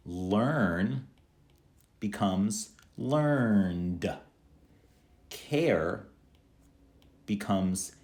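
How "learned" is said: LEARNED very slowly, one syllable closing on d; plain d ending. Shown as a demonstration. Teacher giving examples of the d sound, slow d ending. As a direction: stretch LEARNED and release the d. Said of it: "simply like d".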